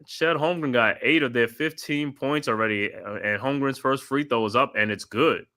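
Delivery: steady broadcast play-by-play, calling each pass. Acted. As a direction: call the game like a TV announcer. Live play-by-play call.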